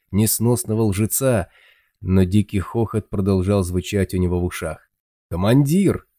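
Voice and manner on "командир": calling out. Acted. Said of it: "донеслось откуда-то из темноты".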